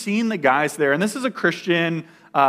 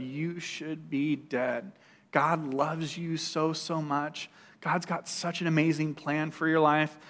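much softer and slow, almost breathed; hushed prophecy; 9 dB quieter, slower than usual. Retold or imitated. Mountain lady telling him God's plan, soft and slow. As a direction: hand over the message gently, slowly.

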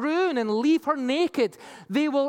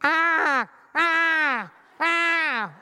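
hammed-up booming ahs from the temple; mock temple voice calling out ah; 4 semitones higher, much slower than usual. Preacher voicing the temple's cry, mock booming. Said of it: "came a loud voice from the temple saying".

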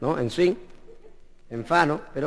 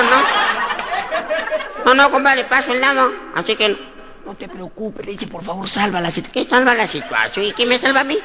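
flustered sacristan; 3 semitones higher than usual. Acted. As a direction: refuse in a comic fluster. Panicked sacristan refusing. (sacristán nervioso y agudo)

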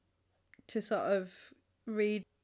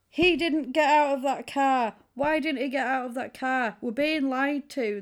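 mock outrage, higher and louder; indignant outburst; 3 semitones higher, 4 dB louder than usual. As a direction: protest it like you've been cheated. Acted rant from the story.

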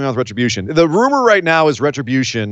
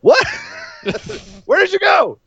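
shrill Demi squeal. Retold or imitated. Host voicing Demi abandoned backstage, high mock squeal. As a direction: squeal in disbelief, hammed up. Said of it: "She's just like".

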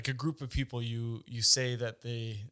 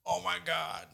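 higher, drawn-out gushing; mock starstruck fan; 4 semitones higher than usual. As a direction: imitate an overawed fan. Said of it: "But I wouldn't be like".

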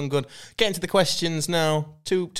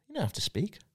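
whispered; 5 semitones higher, 9 dB quieter than usual. Pretend. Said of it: "another reason for Yoda".

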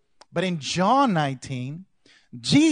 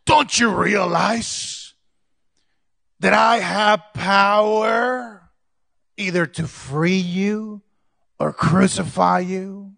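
slow, drawn-out ruler's threat, a little louder; Pilate's slow louder threat to a prisoner; Pilate, imperious; 3 semitones higher, 5 dB louder, slower than usual. Acted. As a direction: lean in like a governor flexing power. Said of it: "maybe he had a little deeper voice".

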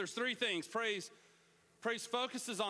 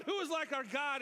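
excited call to praise; 7 semitones higher than usual. Acted. Preacher leading congregation call.

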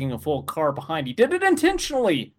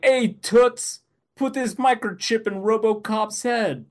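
sleazy guy voice; 6 semitones higher, 3 dB louder, slower than usual. Retold or imitated. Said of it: "he's just like".

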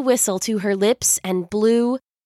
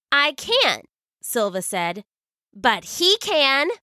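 put-on young girl voice; 4 semitones higher than usual. Silva's girl voice.

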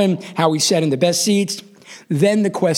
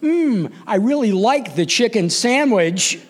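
rehearsed line; 4 semitones higher than usual. Retold or imitated. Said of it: "he had me practice going".

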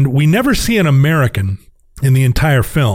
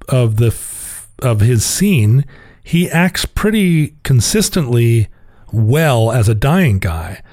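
normal talking voice

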